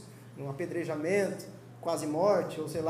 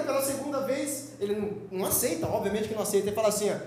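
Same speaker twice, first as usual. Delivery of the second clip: ordinary talk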